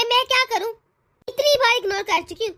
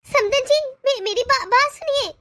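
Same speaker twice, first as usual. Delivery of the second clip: desperate plea; 3 semitones higher than usual. Acted. Mother pleads as call ends.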